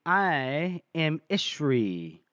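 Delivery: very slow, drawn-out announcement; imitated slow, deliberate entrance line; mysterious self-introduction. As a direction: stretch out each word, stating the name portentously. Mysterious woman announces herself.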